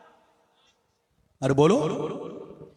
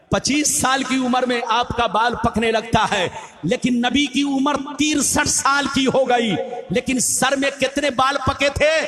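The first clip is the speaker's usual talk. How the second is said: fiery preaching. Acted. Preacher rousing the gathering about the Prophet, full-force preaching. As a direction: preach it to the crowd with swelling fervor.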